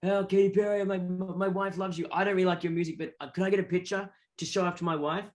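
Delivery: lightly mocked sycophant voice; a hint of fawning fan; fawning suck-up. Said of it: "all these suck-ups going like".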